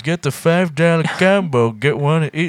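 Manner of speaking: slow, drawn-out ad pitch; mock commercial announcer. Friend retelling the Dairy Queen commercial, slow announcer pitch. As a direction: sell it like a TV food ad.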